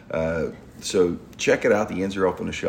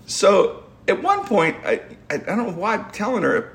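still laughing; 12 semitones higher than usual. Real, not acted. Laughing while retelling.

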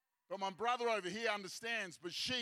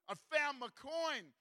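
higher, drawn-out joyful cry; joyful announcement; 5 semitones higher, slower than usual. Acted. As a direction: announce the find, stretching it out. Woman celebrates the found coin.

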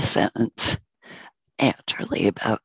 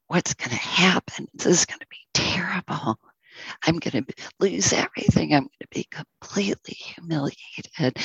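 anxious. Acted. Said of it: "he started obsessing".

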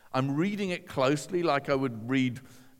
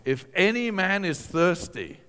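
raised, higher proclaiming voice; loud voice; 4 semitones higher, 4 dB louder than usual. Retold or imitated. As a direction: call it out to a gathered crowd. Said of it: "he says in a loud voice".

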